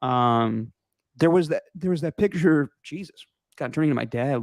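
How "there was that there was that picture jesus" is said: losing the voice mid-sentence; voice giving out. Real, not acted. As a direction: voice cracking and giving out. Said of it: "losing my voice while I'm talking".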